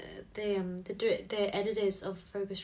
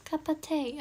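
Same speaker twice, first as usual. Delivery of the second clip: higher, playful put-on British-style accent; bad accent; 5 semitones higher than usual. Repeating the joke for viewers, higher badly faked accent. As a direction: try a mock British-style accent, pitched up. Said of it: "I'm really bad with accents".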